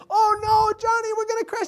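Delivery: very high, loud pretend alarm; hammed-up panicked yell to amuse the kids; playful mock panic. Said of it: "I played like".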